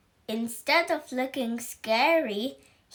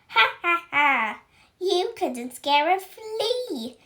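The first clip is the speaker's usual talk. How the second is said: high, loud jeering laugh; snorting laugh; 6 semitones higher, 4 dB louder than usual. Acted. Witch Spell snorting at tumbled Howler, high scornful laugh. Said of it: "snorted Spell".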